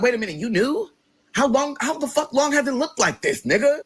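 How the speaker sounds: can't believe she knew all along; shocked outrage. Retold or imitated. Shocked at sister's confession.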